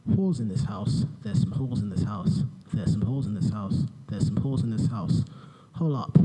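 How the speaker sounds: deadpan monotone reading; boring voice parody. Pretend. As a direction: read the lyrics like a dull memo. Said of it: "in my boring voice".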